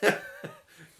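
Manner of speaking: loud, high laughing words; real cracking up mid-phrase. Real, not acted. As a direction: burst out laughing as you say it. Cracks up at the saying.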